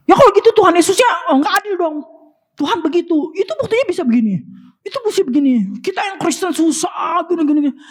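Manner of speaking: high, whiny complaint of unfairness; complaining believer. Retold or imitated. Preacher mimicking a believer who whines about hardship. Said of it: "Ada orang yang bilang begini".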